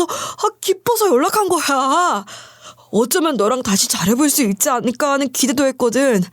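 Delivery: a hint of a self-pitying ex-husband; ex-husband's voice. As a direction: play the ex pouring out his troubles. Ex-husband coaxing her back.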